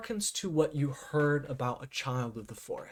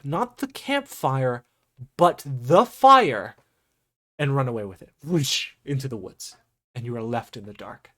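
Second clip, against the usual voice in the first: measured game master storytelling, punched key words; dramatic scene narration; 6 dB louder than usual. Acted. Game master describes a glowing figure stealing fire, dramatic narration. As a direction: build suspense with long pauses and emphasis.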